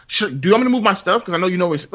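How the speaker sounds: fake-sweet surprise to make him feel bad; mock innocent surprise. To a coworker who took his seat, fake-sweet surprise. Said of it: "make me feel like".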